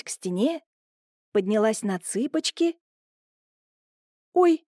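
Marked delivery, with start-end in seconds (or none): 4.3-4.7 a startled higher, louder "Ой"; frightened gasp. A narrator's reading. Wife reaching up, suddenly startled. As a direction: freeze on a scared "Ой". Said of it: "замерла испуганно".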